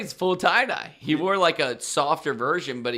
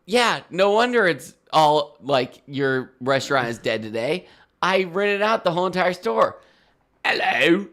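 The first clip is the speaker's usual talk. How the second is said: imitating a rich man; 3 semitones higher, 3 dB louder than usual. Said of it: "doing his impressions of".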